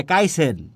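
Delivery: কাইসেন with hard unaspirated ক; Netrokona pronunciation. Retold or imitated. Teacher quoting Netrokona people, কাইসেন without aspiration. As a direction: say কাইসেন with k replacing kh. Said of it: "নেত্রকোনার মানুষ বলে".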